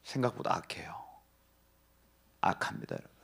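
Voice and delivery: low unvoiced whisper; whispered warning. Real, not acted. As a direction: hush the words. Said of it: "preacher drops to whisper".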